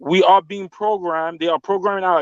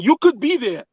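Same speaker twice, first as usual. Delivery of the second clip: raised pitch, fired-up insistence; heated, emotional; 5 semitones higher than usual. Real, not acted. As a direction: push the point hard, getting worked up. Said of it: "you seem a bit emotional".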